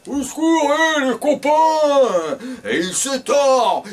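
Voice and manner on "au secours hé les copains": high shout from inside the lion; yelling for help. Acted. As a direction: cry out for help, higher. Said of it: "il gueule".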